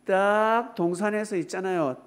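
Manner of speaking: ordinary talk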